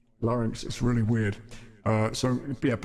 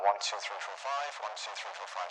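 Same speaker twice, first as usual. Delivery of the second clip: megaphone voice; 3 semitones lower, 6 dB quieter than usual. Shown as a demonstration.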